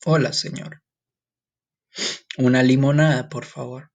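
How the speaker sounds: polite diner ordering lemonade; customer ordering. Shown as a demonstration. Teacher plays a customer ordering in a restaurant. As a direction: greet the waiter and order politely. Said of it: "Imagine yourself in this restaurant ordering".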